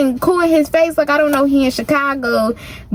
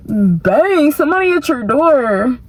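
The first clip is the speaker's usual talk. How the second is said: second try at gay voice. Retold or imitated. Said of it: "I don't know how to do a gay boy voice".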